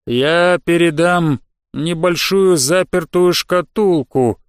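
slow, deliberate creature voice; slug creature voice. Acted. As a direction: weigh each word like an old slug.

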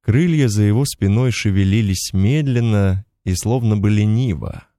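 ordinary delivery, nothing marked

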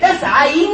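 "تسعين" slowly as tasayinna, holding the n; drawn-out doubled n. Shown as a demonstration. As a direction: stretch the doubled n ending of "تسعين". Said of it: "كذلك". (نطق "تسعين" ببطء مع نون مشددة ممدودة)

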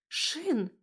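a touch of dismay; shocked exclamation. A narrator's reading. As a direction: gasp out his name in shock. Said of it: "потрясённо воскликнула я".

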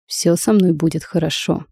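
drowsy mumble through sleep; sleep talking. Acted. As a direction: mumble it half asleep. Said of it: "сквозь сон пробормотал Кай".

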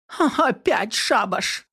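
a grumbling pensioner fed up with the noise; indignant old woman. A narrator's reading. Old woman at the window, indignant. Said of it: "возмутилась пожилая женщина".

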